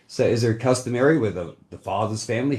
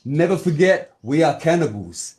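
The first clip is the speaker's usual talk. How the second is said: heated, emphatic declaration; defiant warning; 4 semitones higher, 4 dB louder than usual. Real, not acted. Islander warning the others about his people, defiant and heated. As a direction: drive the warning home, insistently.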